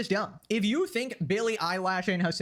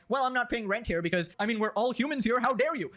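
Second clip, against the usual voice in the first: mocking whiny idealist, pitched up; imitating an idealist, higher; mock leftist voice; 3 semitones higher than usual. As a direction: sneer it like a naive utopian. Mocking the open-borders argument.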